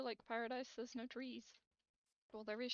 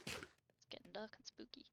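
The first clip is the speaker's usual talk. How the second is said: spooky whisper; 5 dB quieter than usual. Acted. Night falls in game.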